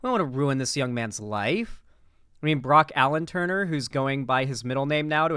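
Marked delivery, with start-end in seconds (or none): 0.1-1.8 mock pleading lawyer. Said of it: "the lawyers were saying".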